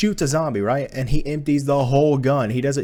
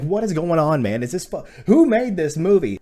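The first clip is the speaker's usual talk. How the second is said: baffled exasperation; 4 semitones higher than usual. Retold or imitated. Retold baffled reaction to the film.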